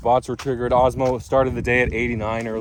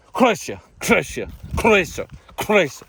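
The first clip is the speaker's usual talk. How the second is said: Croatia said higher and slower in a mock Balkan accent, throaty kʰ and rolled r; 7 semitones higher, slower than usual. Shown as a demonstration. Announcing the World Cup final in a Balkan accent. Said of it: "Serbic, Balkan voice".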